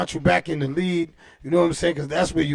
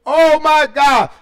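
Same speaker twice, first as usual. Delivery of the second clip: high, slow, drawn-out oh my God; loud exclamation; 8 semitones higher, 7 dB louder, slower than usual. Real, not acted. Reacting to his own Bev story with a loud, slow, high oh my God. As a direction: let it ring out high and long.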